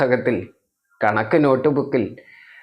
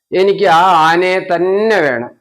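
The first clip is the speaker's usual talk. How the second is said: higher, louder stubborn demand; stubborn child; 4 semitones higher, 5 dB louder than usual. Acted. Refusing mother's paper, a child's higher stubborn demand. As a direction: dig in like a spoilt little boy. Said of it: "വാശി വെച്ചു".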